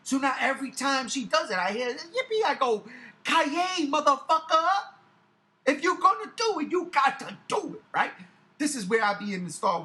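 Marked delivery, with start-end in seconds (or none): 1.9-2.4 put-on high, drawn-out childish cheer; baby-talk squeal. Parent mimicking their child running around, high baby talk. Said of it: "baby talk like that". 3.2-7.8 loud, high, punchy comeback; mock action-hero retort. Parent answering the child's yippee, loud mock retort.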